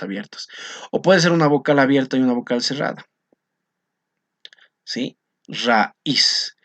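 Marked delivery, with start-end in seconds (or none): 5.5-6.6 RAÍZ said in two beats, "ra... íz"; vowels separated. Shown as a demonstration. Teacher showing a hiatus with separation, vowels pulled apart. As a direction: split "Raíz" between the a and the í. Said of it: "este fenómeno de separación".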